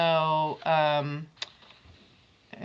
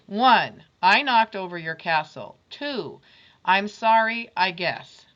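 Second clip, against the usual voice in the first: put-on boy reading apology; 4 dB louder than usual. Final apology note.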